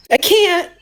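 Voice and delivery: helplessly giving in to tears; real grief breaking through; real crying. Real, not acted. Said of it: "Stop the fucking crying".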